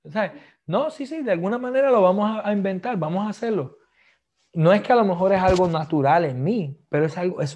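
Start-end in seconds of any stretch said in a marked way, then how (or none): 0.7-3.8 upbeat encouragement. Retold or imitated. Quoting his upbeat office reply.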